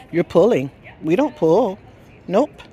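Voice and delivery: loud, stern leash correction; firm correction. Real, not acted. Owner correcting her dog for pulling on the leash, firmly and loudly.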